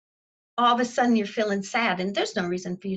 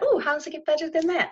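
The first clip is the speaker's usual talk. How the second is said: quick, bright delighted question; delighted ooh; 6 semitones higher, faster than usual. Retold or imitated. Finder of a quarter, delighted, asking quickly for more. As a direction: savor the small win, quickly. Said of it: "found a quarter and said".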